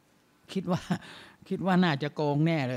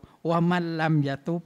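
Quranic recitation; 3 dB louder than usual. Real, not acted.

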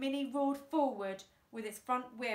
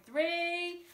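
loud count; 8 semitones higher, 5 dB louder than usual. A narrator's reading.

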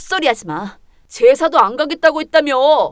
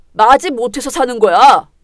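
louder spiteful retort; bitter angry retort; 6 dB louder than usual. Acted. Husband telling his wife he stays with her reluctantly, loud bitter retort. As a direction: hit it back, loud and bitter. Couple's bitter marital fight.

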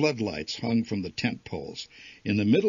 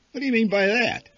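sharp, loud, higher retort; shot back; 13 semitones higher, 7 dB louder, faster than usual. A narrator's reading. Father snapping back at mother's dig, loud and sharp. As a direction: snap the question back at her. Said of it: "my father shot back".

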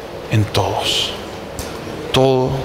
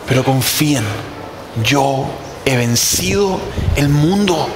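raised, emphatic declaration with pauses between phrases; quoting Jesus; 2 semitones higher than usual. Acted. Preacher quotes Jesus telling followers not to fear, emphatic proclamation. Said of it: "Por eso Jesús dijo".

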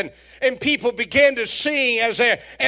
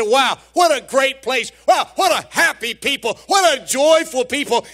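excited exclaiming; 2 semitones higher than usual. Retold or imitated. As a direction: call it out like a thrilled visitor. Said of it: "come to church and say".

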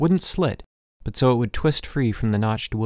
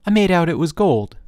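put-on much higher and louder, desperate child; a boy frantic to convince his father; 8 semitones higher, 6 dB louder than usual. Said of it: "I said desperately".

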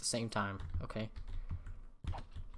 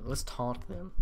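voice crack; slower than usual. Real, not acted. Gamer deciding to taunt the skeletons, voice cracking. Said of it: "voice crack".

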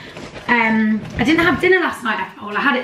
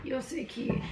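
overwhelmed by cuteness; 3 semitones higher, slower than usual. Real, not acted. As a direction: melt over the cat. Cooing at the cat.

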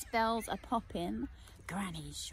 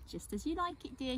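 knowing wink; 5 semitones higher, faster than usual. Acted. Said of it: "she winked".

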